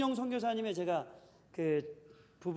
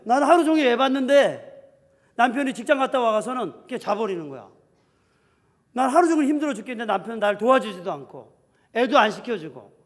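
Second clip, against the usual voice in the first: irritated complaint; 4 semitones higher, 10 dB louder than usual. Retold or imitated. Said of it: "하면서 막 화가 나는 거죠".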